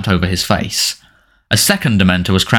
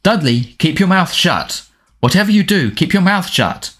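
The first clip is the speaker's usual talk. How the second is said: urgent warning; 9 semitones higher than usual. Acted. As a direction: drill the order into him, frightened. Harry warning Dudley near Dementors.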